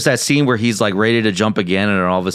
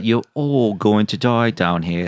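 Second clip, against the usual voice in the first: put-on slow, eerie child's warning; creepy little girl; slower than usual. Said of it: "And then the".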